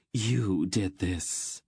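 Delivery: slow, drawn-out accusation; tearful blame; accusing. Acted. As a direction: lay the blame bitterly, word by word. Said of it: "he accused Geryon".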